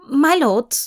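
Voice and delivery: Lucienne, cautious. Acted.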